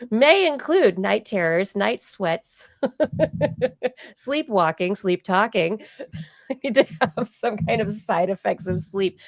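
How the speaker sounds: reading side effects through laughter; giggling through a mock drug ad; laughing ad read.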